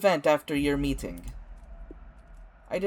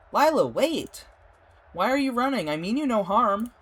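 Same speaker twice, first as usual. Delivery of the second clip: high, loud pleading call; 8 semitones higher, 4 dB louder than usual. Acted. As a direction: plead while chasing her. Calling after Lila.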